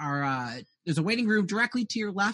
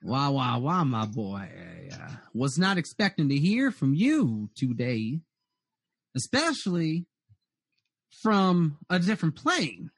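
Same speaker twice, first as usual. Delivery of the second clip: a hint of a devil greeting his boy; lightly voiced Mammon; 3 semitones lower than usual. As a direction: play the surprised devil host, drawing out the greeting. Game master voices Mammon.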